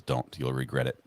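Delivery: soft, low voice of caution; quiet inner warning. Retold or imitated. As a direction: murmur it like a sensible inner voice. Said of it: "the other half says".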